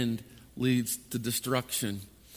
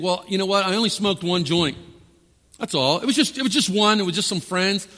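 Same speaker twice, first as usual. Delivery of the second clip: self-excusing listener; 5 semitones higher, 3 dB louder than usual. Acted. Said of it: "and you think".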